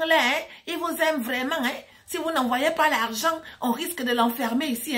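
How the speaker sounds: police commissioner on phone. Retold or imitated. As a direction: imitate an insistent commissioner leaning on her. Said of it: "le monsieur appelle".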